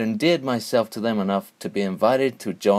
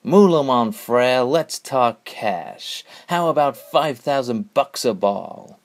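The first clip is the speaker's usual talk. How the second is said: smooth hustler pitch; 3 semitones higher, slower than usual. Acted. Hustler makes his big move.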